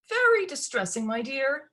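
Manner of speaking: a hint of breathless, fretful mother; slightly panting. Stepmother frets to her daughter, slightly panting. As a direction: fret while catching breath. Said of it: "panting slightly".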